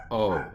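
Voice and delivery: "O" as a long vowel; demonstrated pronunciation. Shown as a demonstration. Teacher sounds out holem vav, long "O". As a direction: draw out "O" as in go. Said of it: "and it's pronounced".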